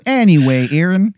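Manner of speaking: mildly hammed Canadian accent; a touch of mock Canadian; Angel of Canada, Canadian accent. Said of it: "it is a horrible Canadian accent".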